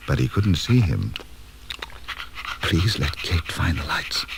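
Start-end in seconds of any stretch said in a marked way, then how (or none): 2.6-4.2 softer, slow murmur to himself; whispered. Acted. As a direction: hush it, a slow plea under your breath. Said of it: "he whispered to himself".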